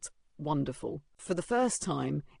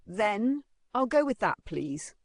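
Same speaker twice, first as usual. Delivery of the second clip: awkward; 5 semitones higher, slower than usual. Acted. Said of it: "awkwardly replying".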